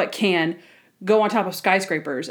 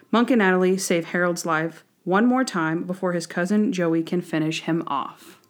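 measured, even read-aloud narration; storytelling recap read. Acted. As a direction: read the episode summary evenly. Reads the episode recap aloud.

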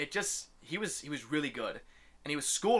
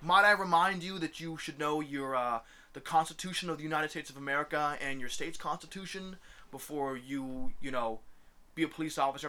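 a hint of a smug know-it-all lecturing; preachy know-it-all; 2 semitones higher than usual. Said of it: "the preachy motherfuckers".

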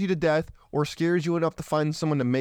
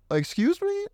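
high, squeaky disbelief; shocked; slower than usual. Retold or imitated. Man shocked by a woman wanting his baby, high squeak. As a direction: yelp it in disbelief.

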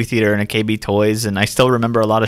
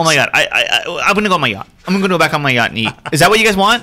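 elitist snob voice; 5 semitones higher, faster than usual. Pretend. Mocking rich snob on yacht.

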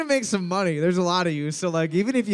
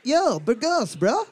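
lively, higher, badly faked Australian accent; so-called Australian accent; 4 semitones higher, slower than usual. Host clowning for quiz players, fake Australian accent. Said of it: "That's my Australian accent".

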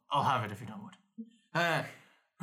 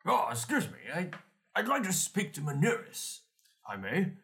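put-on posh accent; 4 semitones higher than usual. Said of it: "Lost that accent immediately".

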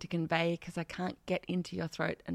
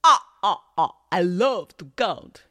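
Count Dracula; 10 dB louder than usual. Shown as a demonstration. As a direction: ham up a twangy American vampire. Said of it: "give him a bit of a".

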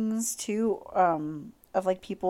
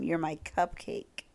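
softer, slow "You're my cupcake"; repeat it softer; 4 semitones lower, 5 dB quieter, slower than usual. Retold or imitated. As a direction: savour "cupcake" quietly. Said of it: "Let me say that one more time".

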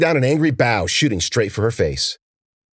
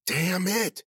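soft, hushed curse under her breath; whispered; 11 semitones higher, 7 dB quieter than usual. A narrator's reading. Cece cursing softly after losing her signal. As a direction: hiss it so no one hears. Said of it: "she whispered".

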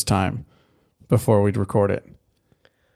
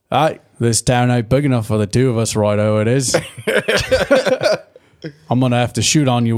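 put-on British cowboy accent. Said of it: "British accent in Old West".

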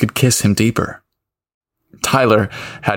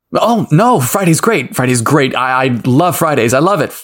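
quick eager reply. Acted. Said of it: "Tyler shot back quickly".

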